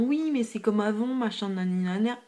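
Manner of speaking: quick mocking imitation of naysayers; imitating critics. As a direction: rattle off the objection in mock complaint. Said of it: "il y en a qui me diront". (imitation moqueuse des râleurs, débitée vite)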